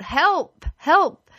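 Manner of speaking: high, loud desperate help; cry for help. Shown as a demonstration. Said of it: "when we cry out".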